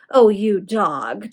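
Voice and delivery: slow, chuckling, amused; a lightly chuckled tease; understated amused chuckle; mild chuckle. Acted. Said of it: "chuckled Sir Rupert".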